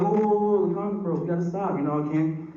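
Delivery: high, flustered stammer; mock panic as the condom breaks; hammed-up panicked boyfriend; panicked guy. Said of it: "You're like".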